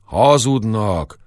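slow, grumbling retort; gruff shepherd brushing off a rumour; sullen. Acted. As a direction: drag the word out sullenly. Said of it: "mondta Koppantyú Demeter mogorván".

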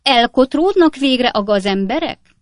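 sharp, high, loud demand; piercing landlady's fury; shrieking. A narrator's reading. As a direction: screech at the lodger to clear them out. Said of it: "sivított Redlné éles hangja".

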